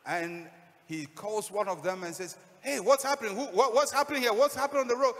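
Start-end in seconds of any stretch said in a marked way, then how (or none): 2.6-5.1 high, loud, rapid questions; calling out. Acted. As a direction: call urgently to people passing by. Blind man calling to passing crowd.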